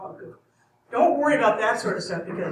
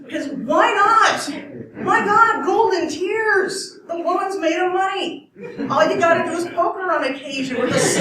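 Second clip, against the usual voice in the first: much higher and louder, laughing greed; greedy excitement; 8 semitones higher, 5 dB louder than usual. Pretend. Narrator playing a greedy boyfriend, excited high laughing squeal.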